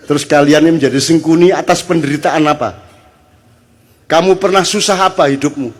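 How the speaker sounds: indignant cross-examination of those in power; accusing challenge. Real, not acted. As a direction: confront them, question after question. Confronting leaders with accusing questions.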